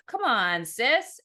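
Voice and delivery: loud, high call to his sister; shouting. A narrator's reading. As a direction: shout it to get her up. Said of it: "Ezra shouted".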